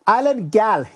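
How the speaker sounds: mock British-Jamaican accent. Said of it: "British slash Jamaican here".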